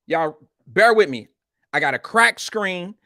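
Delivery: talking with a retainer in; wearing a retainer. Real, not acted. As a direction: speak around a retainer. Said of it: "I got my retainer in".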